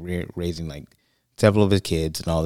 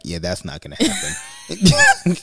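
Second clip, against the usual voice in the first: mock wife reply; 13 semitones higher, 5 dB louder, slower than usual. Wife's reply voiced.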